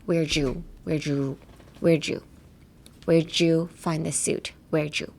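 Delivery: Where Jew with the d turned into a j sound, like sizzling jew; like a sound effect. Shown as a demonstration. Teacher models Where'd you as a sizzling Where Jew. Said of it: "効果音みたいな感じで言ったら".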